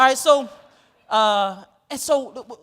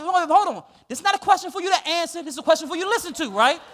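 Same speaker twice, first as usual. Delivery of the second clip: louder, firm hold on, rushing the last line; stern interruption; 4 semitones higher, 6 dB louder than usual. Retold or imitated. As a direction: shut him down before he answers. Cutting off the student.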